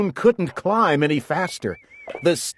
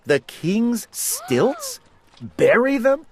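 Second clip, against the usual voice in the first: high, rising bewilderment; puzzled, can't believe it; bewildered; 10 semitones higher than usual. A narrator's reading. Eric bewildered.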